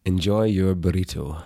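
sign-off in a natural Scottish accent. Shown as a demonstration. Actor giving the podcast sign-off on request, Scottish accent. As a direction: say it Scottishly, evenly. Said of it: "tell people Scottishly to enjoy their burrito".

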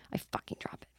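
breathy hushed whisper; barely voiced aside. Real, not acted. Whispered aside before story.

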